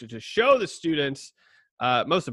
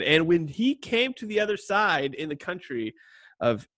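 put-on higher-pitched British accent reading; 6 semitones higher than usual. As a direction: read scripture in a mild British accent. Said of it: "read it in a little bit of a British accent".

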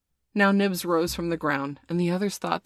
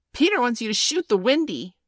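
shrill, high and loud fairy voice; Tinker Bell; 7 semitones higher, 6 dB louder than usual. A narrator's reading. Jealous fairy giving boys Peter's order, shrill. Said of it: "shrill voice of Tinker Bell".

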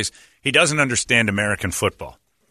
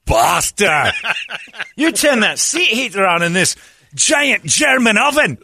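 high, loud outraged yell; mock outraged shout; 9 semitones higher, 4 dB louder, slower than usual. Friend Thomas realizing the seat heater trick, mock outraged yell. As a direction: yell it like you've been betrayed. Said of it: "and he goes".

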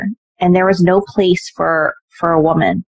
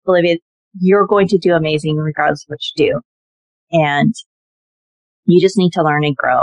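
reassuring dad; 2 semitones lower than usual. Retold or imitated. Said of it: "He's like".

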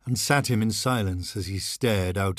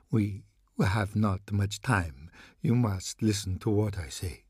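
slow, hushed desperate priest; a hint of a haunted old priest pleading; urgent priest. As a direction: press him gravely, with no time left. Desperate priest warns Thorne.

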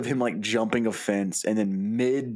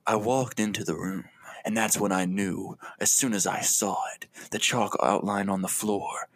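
a hint of a brooding noir detective, fading to a whisper; film noir narrator. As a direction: narrate the crime scene like a noir detective, dropping to a whisper at the end. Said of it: "like, film noir".

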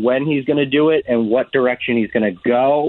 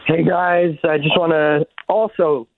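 mouth full; 3 semitones higher than usual. Real, not acted. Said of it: "I had a mango in my mouth".

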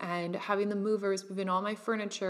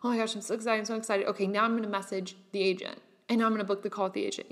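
mock excited; much faster than usual. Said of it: "And then, like".

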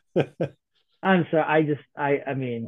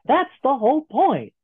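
higher, stressed repeat; emphatic quote; 8 semitones higher than usual. Retold or imitated. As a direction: punch the punchline.

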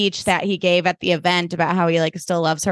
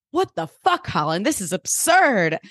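hammed-up outraged disbelief; mock outrage. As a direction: act out incredulous indignation. Acted outraged reply to confession.

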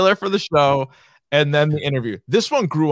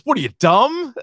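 mock incredulous taunt; 8 semitones higher, 3 dB louder than usual. Quotes the gunman's taunting line.

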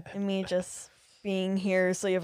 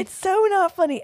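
anger turning to laughter; 8 semitones higher, 10 dB louder than usual. Real, not acted. Keeps protesting the joke.

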